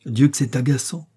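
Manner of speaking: put-on a spoiled girl snapping at a stuck chain; annoyed exclamation. Princess crying out in vexation at the knotted chain. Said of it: "s'écria-t-elle".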